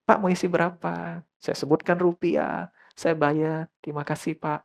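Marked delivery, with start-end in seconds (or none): 0.0-1.2 soft, polite attendant's question; gently attentive to a customer; retold friendly service. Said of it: "Dia ramah sekali". 3.8-4.6 soft, courteous attendant's thanks; quiet, respectful thank-you; retold friendly thanks. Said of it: "Dia ramah sekali".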